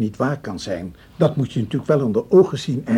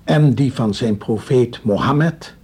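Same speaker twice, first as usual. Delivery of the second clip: solemn oath; slower than usual. Acted. Swearing on the Koran.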